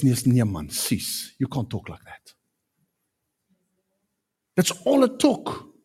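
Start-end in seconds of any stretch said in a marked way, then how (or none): 0.0-2.3 gentle rebuke. Retold or imitated. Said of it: "all it took was".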